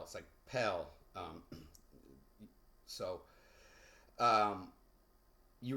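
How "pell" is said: Pell said short, the E of expel barely heard; reduced first syllable. Shown as a demonstration. Teacher showing the reduced E in expel. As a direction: say Pell as if the E were silent. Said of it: "it's like I put a X dash P E L L".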